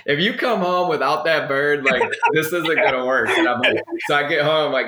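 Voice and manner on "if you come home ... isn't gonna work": half-laughing retold threat; laughing while quoting wife. Retelling his wife's ultimatum, said through laughter.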